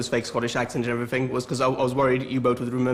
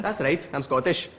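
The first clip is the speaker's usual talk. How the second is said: put-on Scottish accent; 2 semitones higher, 3 dB quieter than usual. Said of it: "learn the Scottish accent".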